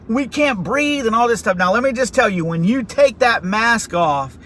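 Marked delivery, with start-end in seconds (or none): 0.1-1.1 high, strained imitation of gasping; a choked cry that you can't breathe; choking plea. Recruits in the gas chamber choking, high and strained. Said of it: "So we're like".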